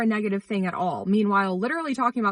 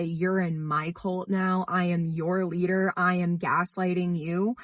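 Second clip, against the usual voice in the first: mock cult leader; 2 semitones lower, slower than usual. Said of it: "come on to our F Y P and say".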